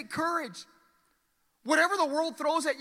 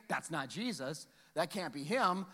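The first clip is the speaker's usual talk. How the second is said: hushed doubting disciples; 7 semitones lower, 7 dB quieter than usual. Acted. Disciples' fearful thoughts voiced.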